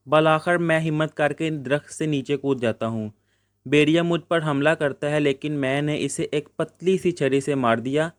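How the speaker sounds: steady textbook reading for the class; measured classroom read-aloud. Acted. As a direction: read the lesson out like a teacher. Teacher reads lesson text aloud.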